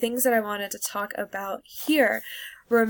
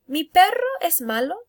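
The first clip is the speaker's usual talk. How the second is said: rising teacher question; 7 semitones higher, 6 dB louder than usual. Shown as a demonstration. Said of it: "teacher asks class".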